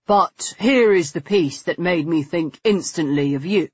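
lightly voiced gentleman showing off a treasure; a hint of the enthusiastic guide, addressed to her; admiring male guide.

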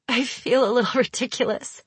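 embarrassed little laugh. A narrator's reading. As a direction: laugh it off sheepishly. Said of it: "she says with a laugh".

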